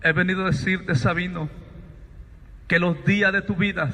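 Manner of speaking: low, grave, measured pronouncement; voice from the light. Retold or imitated. Voice tells Sabino his days have ended, low and solemn. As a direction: deliver each phrase as a solemn verdict, pausing between. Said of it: "Aquella voz me dice".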